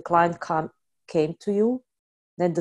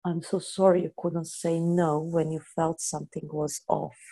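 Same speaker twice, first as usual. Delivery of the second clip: compassionate apology. Shown as a demonstration. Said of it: "So much better".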